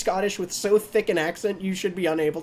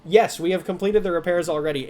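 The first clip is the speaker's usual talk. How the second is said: dockmaster voice take. Acted. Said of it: "let me get into my voice".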